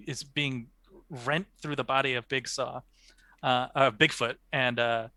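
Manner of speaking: languid pretentious art snob; unhurried, lofty gallery critique; art critic voice. Pretend. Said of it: "in your best, uh, art critic voice".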